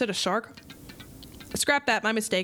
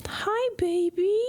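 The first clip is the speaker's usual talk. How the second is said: slow breathy whisper, higher; 8 semitones higher, much slower than usual. Acted. Streamer whispers fondly at the little bar kid. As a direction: coo it in a whisper.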